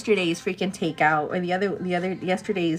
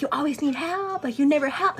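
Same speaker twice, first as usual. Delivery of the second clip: higher-pitched mock complaint; retold bickering; 6 semitones higher than usual. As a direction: act out petty back-and-forth sniping. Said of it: "back and forth bickering".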